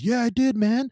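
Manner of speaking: high, loud mock defiance; acted-out cocky retort; defiant comeback. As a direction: throw it back at him, loud and high. Retold comeback in a street confrontation.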